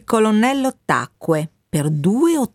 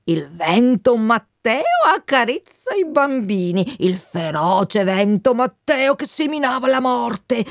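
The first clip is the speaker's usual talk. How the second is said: put-on a mysterious bird cautioning a boy; strange bird voice; 4 semitones higher than usual. Lo strano uccello ammonisce Benvenuto. (uccello misterioso che mette in guardia il ragazzo, voce più acuta)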